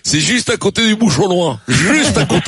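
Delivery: lightly hammed-up Saint-Étienne regional accent; mock Saint-Étienne accent. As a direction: tease with a Saint-Étienne lilt. Mocking the caller's regional accent.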